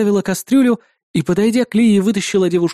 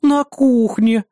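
На кухне drawn out slow and higher, mimicking; mocking imitation; 4 semitones higher, much slower than usual. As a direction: parrot На кухне back mockingly. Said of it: "передразнила соседка".

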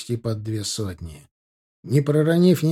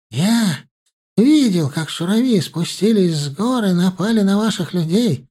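hurried; 6 semitones higher, 5 dB louder than usual. A narrator's reading. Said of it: "торопливо проговорил старый пастух".

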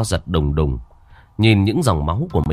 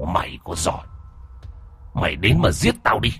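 mocking provocation with pitch swings; taunting challenge; 6 semitones higher, 3 dB quieter than usual. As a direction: dare him to come closer. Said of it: "buông lời thách thức".

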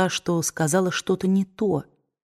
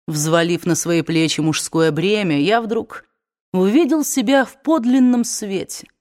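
bitter weary man. Acted. Ashley bitter confession.

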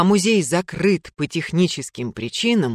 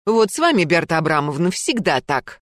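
aggrieved complaint; 4 semitones higher than usual. Acted. Gulya complaining, arguing back.

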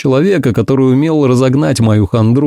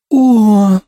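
exclaiming; 10 semitones higher than usual. A narrator's reading. Ursula thrilled at his jealousy, high exclamation. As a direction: gasp it out, much higher. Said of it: "воскликнула Урсула".

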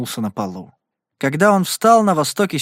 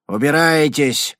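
a slow, louder growl; 4 dB louder, slower than usual. Acted. Bill orders the riders off the porch, growled. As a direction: growl it out as a threat. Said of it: "прорычал он".

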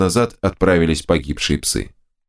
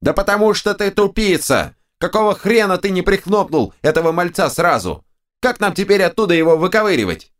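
two bickering giant voices; 11 semitones higher than usual. A narrator's reading. Right head insults left.

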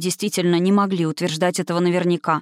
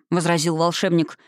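usual speaking voice

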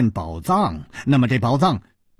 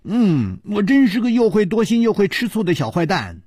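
giggling; 8 semitones higher than usual. A narrator's reading. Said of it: "咯咯地笑着说".

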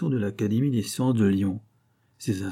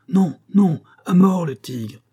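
much higher and louder mob cry; crowd shouting; 8 semitones higher, 7 dB louder, slower than usual. A narrator's reading. Angry crowd demanding the tiger be killed, high loud shout. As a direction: roar for the tiger's death. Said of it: "cria la foule".

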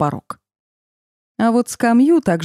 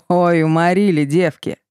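laughing. A narrator's reading. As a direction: laugh while saying it. Men laughing at trapped friend.

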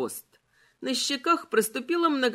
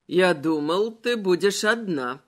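skeleton voice; 3 semitones lower, 3 dB louder than usual. Acted. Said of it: "сказал он".

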